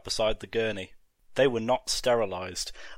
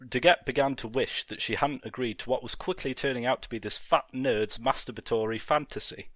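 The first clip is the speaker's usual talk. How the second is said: ordinary delivery, nothing marked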